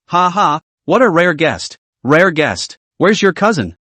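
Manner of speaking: lightly mocking, amused; teasing. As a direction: poke fun at him gently. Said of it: "Chen Xian teased".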